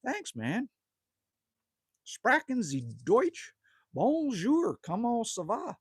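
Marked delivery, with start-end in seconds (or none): 2.0-5.8 German then French phrases in a lightly put-on accent, German slow; playful tourist showing off a few foreign words; mock foreign phrases. Streamer hamming up phrases for foreign chat viewers, mock accent. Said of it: "That's Frenchy fried".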